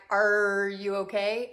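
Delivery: slow, careful imitation of a husband checking in; mock-cautious question, drawn out; imitated husband. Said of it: "Bobby would be like".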